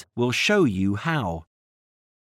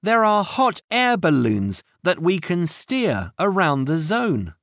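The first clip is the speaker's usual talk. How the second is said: excited; 6 semitones higher than usual. Acted. Minnie excited about the balloons.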